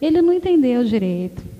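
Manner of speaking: soft, low, slow and gentle; a calm fatherly word to his daughter; gentle divine whisper of advice; voice of God. Retold or imitated. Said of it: "Deus tá falando assim comigo".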